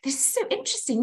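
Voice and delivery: mock wonder. Shown as a demonstration. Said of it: "To say".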